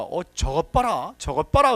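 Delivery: excited loud cry of look at that; excited exclaiming. Retold or imitated. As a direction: call out loudly to point it out. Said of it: "그래요".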